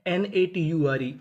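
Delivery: slow spelled letters. Shown as a demonstration. Teacher to class, slowly spelling letters. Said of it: "इसे क्या पढ़ेंगे?".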